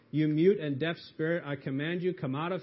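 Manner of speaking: commanding rebuke. Acted. Jesus rebuking the unclean spirit, firm command. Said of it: "saying to it".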